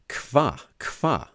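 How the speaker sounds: slow, punchy imitated duck noise; Polish duck call. Shown as a demonstration. Dad showing co-host how Polish ducks sound, imitated quack. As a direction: demonstrate a duck's quack as "kwa". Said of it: "a Polish duck goes".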